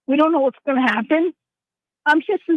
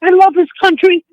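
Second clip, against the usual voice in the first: impassioned; 3 semitones higher, 6 dB louder than usual. Real, not acted. Caller emotional about her country.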